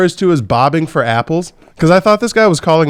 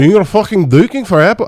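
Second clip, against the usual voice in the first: imitated Scottish accent; 4 semitones higher than usual. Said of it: "Scottish is like a drunk Irishman".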